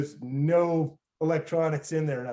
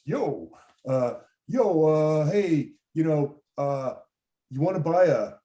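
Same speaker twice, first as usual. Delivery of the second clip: mild mock New York street accent; 4 dB louder, slower than usual. Skeevy guy offers a stranger electronics, light New York accent. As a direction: open a hesitant sales pitch in a New York accent. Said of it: "that's my New York voice".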